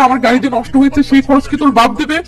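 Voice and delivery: a touch of a rude angry retort. Acted. Stranger demanding repair money, mildly angry. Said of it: "লোকটি রেগে মেগে বলে".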